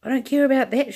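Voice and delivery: put-on an old woman shouting back; shouted. A narrator's reading. Grandma shouting at Wonka, high and loud. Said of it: "shouted Grandpa, Grandma Josephine".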